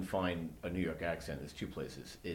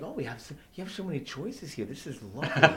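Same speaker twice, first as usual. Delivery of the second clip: gushing tourist; 4 semitones higher than usual. Retold or imitated. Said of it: "And the guy's like".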